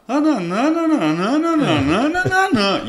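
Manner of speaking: high, whiny run of não não não; imitando o Lélio. Retold or imitated. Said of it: "o jeito dele falar é assim". (imitação do Lélio, agudo e reclamão)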